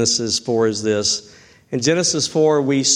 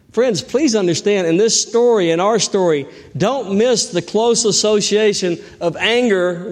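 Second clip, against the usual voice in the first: fiery preaching; 8 semitones higher than usual. Acted. Preacher urging the congregation about anger, building. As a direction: press the point home to the congregation.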